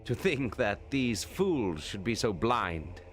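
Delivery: lightly voiced arrogant noble; arrogant Eidolon. Eidolon sneers at the enemy.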